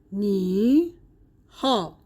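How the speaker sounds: "نی" and "ها" apart, each in a dipping third tone; two third tones. Shown as a demonstration. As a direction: say "نی", pause, "ها", each with its own third tone. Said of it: "هر دو تون سه هستن".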